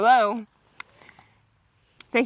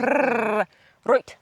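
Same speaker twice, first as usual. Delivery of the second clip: rolled R trill. Shown as a demonstration. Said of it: "You can't roll your tongue".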